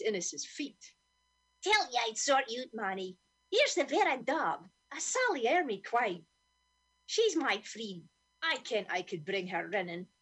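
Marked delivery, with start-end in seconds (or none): 1.6-10.1 squawked. Acted. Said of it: "Scurry squawked".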